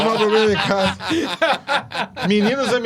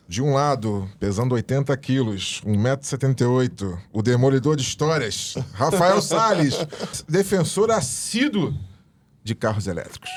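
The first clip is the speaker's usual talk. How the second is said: fight promoter; 5 semitones lower than usual. Pretend. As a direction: announce the fighters like a boxing match. Apresentação de luta entre debatedores. (locutor de luta)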